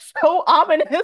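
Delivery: loud, high-pitched laughing.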